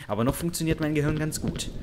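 soft-spoken line with emphasis on "noch"; stress on NOCH. Real, not acted. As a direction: lean on the word "noch". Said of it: "Betonung auf noch".

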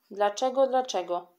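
a girl mockingly mimics her classmates' question; mocking mimicry. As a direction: echo the question back in a mocking singsong. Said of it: "przedrzeźniała Kasia".

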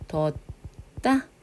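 뒀다 broken into 둳, pause, 따; demonstrated syllable split. Shown as a demonstration. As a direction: stop on 둳 before 따. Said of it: "이렇게 하면 되겠지".

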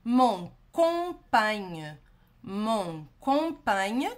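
"mon compagne" drawn out slowly; slow model pronunciation. Shown as a demonstration. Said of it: "a gente tem uma palavra". ("mon compagne" bem devagar)

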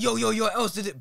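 high-pitched excited hype quote; bare energy. Retold or imitated. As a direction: imitate a hyped-up mate calling out. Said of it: "Bare energy".

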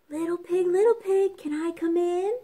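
high, sly wolf calling at the door; a sweet, wheedling wolf at the door. Acted. Wolf asks the pig to let him in, high and sly.

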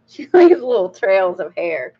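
real giggle around the words; laughing. Real, not acted. Reviewer repeating the trails of hair bit to viewers, laughing. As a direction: say it while cracking up.

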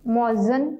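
मुअज्जन said with a short a in the last syllable, mo-az-zan; demonstrating the mistaken मुअज्जन ending in -zan; teacher showing how मुअज्जन is misread; wrong pronunciation. Shown as a demonstration. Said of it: "जो कि दुरुस्त नहीं".

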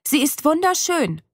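defiantly defending her tortoise. A narrator's reading. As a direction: say it with stubborn defiance. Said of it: "sage ich trotzig".

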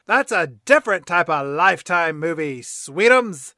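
lightly voiced sardonic cat, a bit loud; a touch of mock sweetness at the end; Grumpy Cat. Cat answering Tabby's worried question, mildly sardonic. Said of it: "And then Grumpy Cat says".

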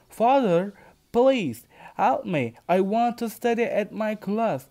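lightly voiced boy pleading with his father, mildly tearful. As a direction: beg father, a touch of tears. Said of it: "Jason starts crying".

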